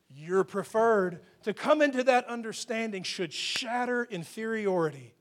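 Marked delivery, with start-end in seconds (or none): 0.1-1.2 "you're preferred" drawn out slowly and pressed home; slow, deliberate assurance on "you're preferred"; slow emphatic. Shown as a demonstration. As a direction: let each word of "you're preferred" land slowly.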